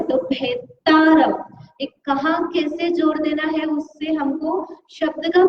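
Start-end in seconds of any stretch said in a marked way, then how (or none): 0.0-1.4 भेतारम said slowly, the double त clear; careful pronunciation. Shown as a demonstration. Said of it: "दो त है".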